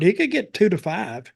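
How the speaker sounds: lawyerly, measured sentence read; legal voice. Shown as a demonstration. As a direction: state it like a lawyer. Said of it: "in my legal voice".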